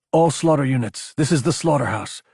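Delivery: lightly voiced radio call to all units; crisp announcement to the troops; radio callout. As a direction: address the whole unit over comms.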